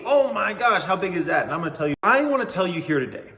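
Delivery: bright salesy sponsor-read voice; hammed-up announcer pitch for the ad; mock ad read. Host hypes his fake crypto sponsorship in a mock ad-read voice.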